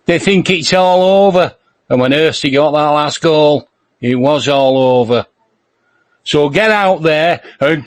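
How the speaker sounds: mock inspirational team talk, Middlesbrough accent; Brian Clough. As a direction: play an old football manager rousing the team. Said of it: "I'm doing a Clough".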